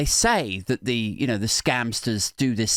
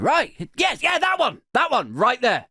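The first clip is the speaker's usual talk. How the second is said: eager, higher mock boss voice; mock scammer boss; 5 semitones higher than usual. Comedian voicing a scammer boss choosing the shitty logo, eager and high. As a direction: play the boss picking the worst option. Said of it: "The boss is like".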